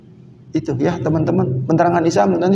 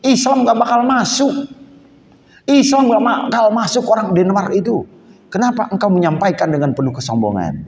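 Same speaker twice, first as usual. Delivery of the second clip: retold teacher's rebuke; 4 semitones higher than usual. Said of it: "guru ngomong".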